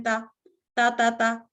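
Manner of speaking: ता repeated thin and light. Shown as a demonstration. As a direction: tap out a light ता. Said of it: "जिस तरह हम ता कहते हैं".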